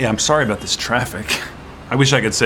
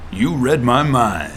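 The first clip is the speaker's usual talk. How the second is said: movie line delivery; slower than usual. Acted. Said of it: "Do the line".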